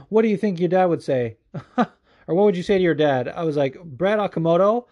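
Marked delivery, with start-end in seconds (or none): 0.1-3.3 higher-pitched mocking question; mock questioner. Host imitating the reporter asking about his dad, mocking. 3.8-4.8 drawn-out, louder mock-furious curse; retold angry outburst. Host reacting to the reporter Brett Okamoto, mock outrage.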